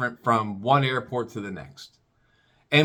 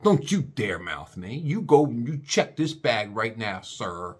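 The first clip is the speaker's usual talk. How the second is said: imitating snippy agent; 2 semitones lower, slower than usual. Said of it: "she goes".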